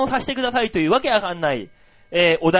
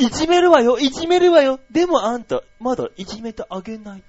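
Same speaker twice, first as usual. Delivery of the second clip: a hint of a sadistic queen, higher; teasing dominatrix; 4 semitones higher, 4 dB louder than usual. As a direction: tease him like a dominatrix. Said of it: "すげえ S じゃん". (女王様っぽく軽くじらす口調)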